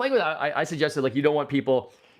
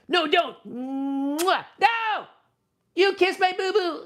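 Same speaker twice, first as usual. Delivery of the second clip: high squealing plush whine; whiny toy protest; 13 semitones higher, much slower than usual. Pretend. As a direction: wail like a fussy little toy.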